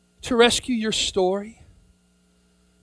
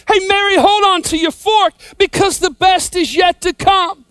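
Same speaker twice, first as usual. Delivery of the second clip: calling out to Mary; 5 semitones higher than usual. Pretend. Preacher urging Mary at the cross, raised call. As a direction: plead with her, voice lifted. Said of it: "I wanna say".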